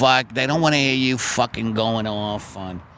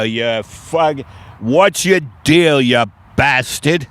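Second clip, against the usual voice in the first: yelling out window; slower than usual. Retold or imitated. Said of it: "I always yell out the window".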